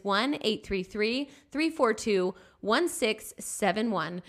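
slow, spaced digits again; slow repeated phone number; number repeated slowly. Shown as a demonstration. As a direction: repeat it clearly. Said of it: "Again, the number is".

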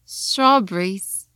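strawberries spoken the British way, slow. Shown as a demonstration. A teacher contrasting the spoken British strawberries.

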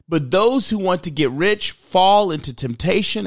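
solemn Bible reading, verse by verse; scripture reading. Acted. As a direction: read the passage like a pastor at the pulpit. Reads the Bible verses aloud.

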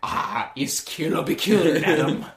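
bad Italian accent. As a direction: attempt an Italian accent, badly. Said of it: "I can't do an Italian accent".

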